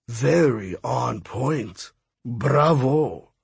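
amused slow praise; smiling. Acted. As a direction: savor the compliment with a smile.

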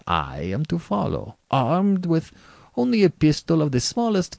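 General relishing his rules, pitch swinging high; gamesman General. Acted.

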